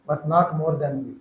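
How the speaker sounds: very slow, each word weighed; slow earnest prayer. Retold or imitated. Retelling his prayer in the car, slow and earnest. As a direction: lay it down slowly before God.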